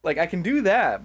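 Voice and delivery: high, loud Demo Man Scottish accent; loud mock-Scottish game character. Shown as a demonstration. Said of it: "Do a Demo Man accent".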